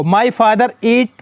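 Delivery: "My father eat" read out very slowly, word by word; slow dictation read. Shown as a demonstration. Teacher reading the example sentence to students, very slow. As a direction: spell the sentence out slowly for the class. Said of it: "अब यहाँ देखो".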